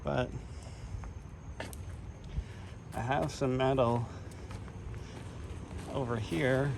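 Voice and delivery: winded from hard work; breathless after working; out of breath. Real, not acted. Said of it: "And I'm out of breath from working".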